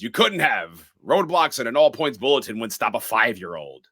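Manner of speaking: mildly annoyed retort; lightly acted irritation. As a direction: retell it with a touch of exasperation. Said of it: "Loomis, an-, annoyed".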